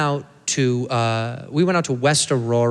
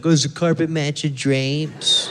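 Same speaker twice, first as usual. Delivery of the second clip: drawn-out, slow teasing question; stupid questioner; slower than usual. Acted. White people quizzing a redhead, stupid question. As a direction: ask it slowly in a put-on dopey way. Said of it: "They ask us stupid questions like".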